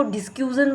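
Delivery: डिस्क्यूजन, with "kyu-zan" for "cu-shun"; mispronounced discussion. Shown as a demonstration. Showing a teacher's faulty model, mispronounced. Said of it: "आपका ही pronunciation सही नहीं है".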